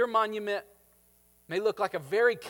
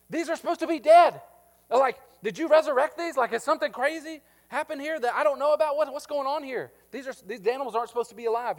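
much higher and louder mocking disbelief; incredulous Samuel; 7 semitones higher, 7 dB louder than usual. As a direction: pile on the sarcastic questions. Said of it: "Samuel is going".

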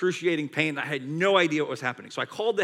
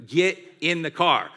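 louder, insistent wifely command; firm order; 5 dB louder than usual. Retold or imitated. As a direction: imitate an exasperated wife giving orders. Wife orders him to go.

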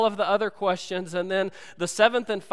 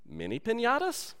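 El Guapo voice; 4 semitones higher, 6 dB quieter than usual. Retold or imitated. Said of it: "he says".

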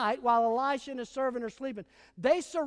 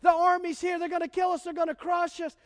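mock panic; 4 semitones higher, faster than usual. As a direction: act out a servant's hammed-up panic. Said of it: "He goes running back in in panic".

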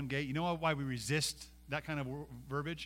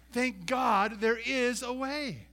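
impassioned praise; 9 semitones higher, 7 dB louder, much slower than usual. Real, not acted. Impassioned preaching climax.

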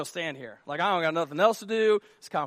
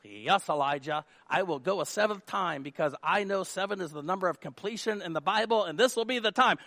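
mock pious. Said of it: "we always assume ... great faith".

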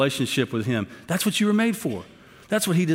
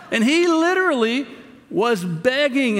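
laughing while telling, much higher; real laughter, louder; 8 semitones higher, 3 dB louder, slower than usual. Real, not acted. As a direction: burst out laughing mid-sentence. Laughing at the memory.

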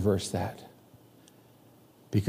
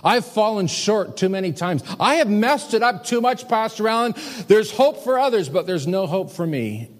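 despairing listener; 6 semitones higher, 3 dB louder than usual. Retold or imitated. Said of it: "you think".

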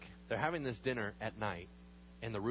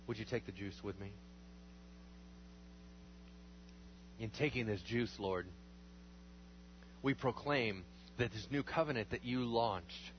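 hushed, earnest communion prayer. Real, not acted. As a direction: reverent spoken prayer. Congregational prayer over communion.

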